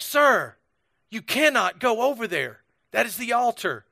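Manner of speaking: stern, high-pitched imitation of a Scottish woman; mean Scottish accent. Scottish woman stops a tourist at the altar, mean mock accent. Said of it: "really mean William Wallace-sounding Scottish accent".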